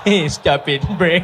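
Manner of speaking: stifled giggle through the words; laughing mock scolding. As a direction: try to scold but crack up laughing.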